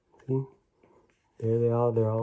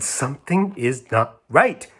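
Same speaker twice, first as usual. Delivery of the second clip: worried Miss Clavel; 3 semitones higher, 6 dB louder than usual. Acted. Miss Clavel wakes alarmed.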